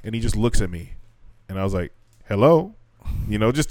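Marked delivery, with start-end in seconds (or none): 2.3-2.7 prompting hello. Retold or imitated. Prompting silent kid.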